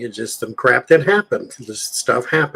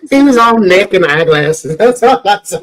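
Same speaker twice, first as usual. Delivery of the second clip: laughing; 10 semitones higher, 12 dB louder than usual. Real, not acted. Laughing at a politician's look.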